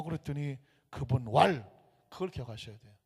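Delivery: ordinary talk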